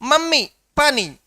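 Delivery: put-on 1 toddler. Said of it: "जैसे कि बच्चा कह रहा है".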